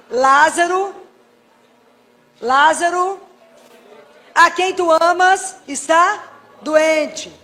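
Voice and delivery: loud, slow, drawn-out plea; solemn prayer. Shown as a demonstration. Preacher showing the prayer for a sick loved one, loud slow plea. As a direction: intone each word slowly. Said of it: "olha o que eu rezo a frase".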